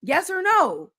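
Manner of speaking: mock quiz. Shown as a demonstration. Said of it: "How is that complex?".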